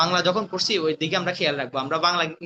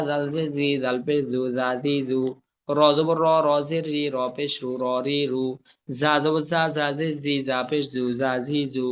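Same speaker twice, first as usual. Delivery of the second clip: spelling drill recitation. Shown as a demonstration. Teacher drilling Arabic letters with vowel marks, chanted recitation. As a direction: recite it as a steady monotone drill.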